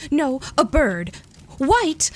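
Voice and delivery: loud, high, slow, delighted guesses; joyful shout. A narrator's reading. Edith shouts guesses during the charades, joyful and loud. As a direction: call out each guess like winning a game. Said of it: "she shouted again".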